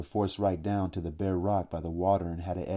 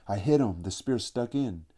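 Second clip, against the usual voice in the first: excited; 3 semitones higher, 4 dB louder than usual. Acted. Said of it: "full of fright and apprehension and pride".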